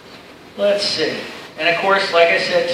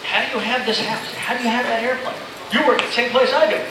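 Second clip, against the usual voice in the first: higher-pitched imitation of nosy coworkers; mock accusing; 5 semitones higher than usual. Coworkers questioning how he affords a house and airplane, accusing. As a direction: imitate them challenging you, pitched up.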